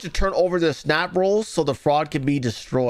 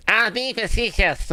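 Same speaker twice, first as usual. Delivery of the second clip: mock Tim Pool; 5 semitones higher than usual. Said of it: "And he's like".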